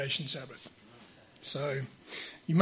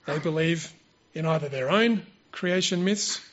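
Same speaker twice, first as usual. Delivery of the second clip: prepared sermon delivery; 6 dB louder than usual. Real, not acted. Speaker presents a prepared creation talk to church, measured formal delivery. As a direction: deliver it point by point, leaning on key words.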